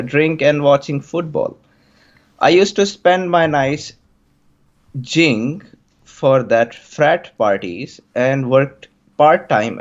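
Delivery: put-on light Indian English accent. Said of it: "so I can try my Indian accent on this".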